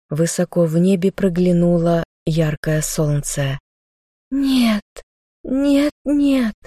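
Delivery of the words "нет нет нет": a much higher, despairing "нет"; anguished moan. A narrator's reading. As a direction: cry out in grief as he falls. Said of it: "простонала я".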